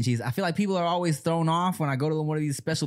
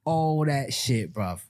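mock British accent. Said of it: "That sounded really nice".

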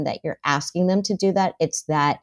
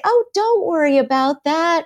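higher, breezy reassurance that dismisses the worry; brushing it off; 10 semitones higher than usual. Retold or imitated. Parent brushing off a child's worry, breezy. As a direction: wave the worry away lightly. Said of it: "And so you say".

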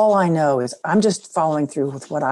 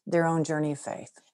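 soft whisper; 6 dB quieter than usual. Real, not acted. Gentle point about kids' faith.

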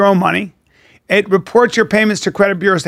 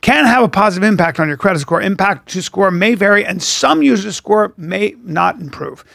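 quick legal disclaimer read; disclosure read. Acted. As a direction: rattle off the fine print. Reads mandatory disclosure.

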